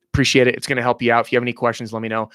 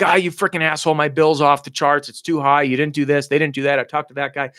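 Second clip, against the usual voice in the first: mock angry rant; 3 semitones higher than usual. Customer chewing out a phone supervisor, mock angry complaint. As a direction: act out an irate customer venting, without a full scream. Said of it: "you're screaming at him".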